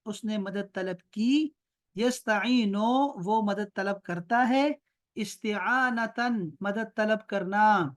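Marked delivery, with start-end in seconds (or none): 2.0-3.2 فہو عابدن stretched out very slowly; slow Arabic citation. Shown as a demonstration. Teacher modelling the doer form for Talha, very slow. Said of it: "drawn-out Arabic model form". 5.2-6.5 فہو عابدن stretched out very slowly; slow Arabic citation. Shown as a demonstration. Teacher modelling the doer form for Talha, very slow. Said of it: "drawn-out Arabic model form".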